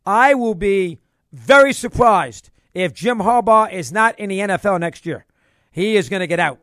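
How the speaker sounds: firm, emphatic prediction, weighting the words; real conviction, measured and deliberate. Real, not acted. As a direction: state it as a sure thing. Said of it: "I'll say it with conviction".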